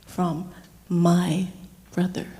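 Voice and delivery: "my" set apart and leaned on, pause before "brother"; stress on MY. Retold or imitated. Mother proud of her brother's gift, stress on "my". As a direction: hold back "brother" after a weighty "my".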